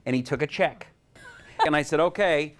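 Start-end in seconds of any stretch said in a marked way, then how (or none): 2.0-2.5 pidgin English bribe, a touch higher; imitating a haggling tourist; mock broken English. Bribing guy, mock broken English.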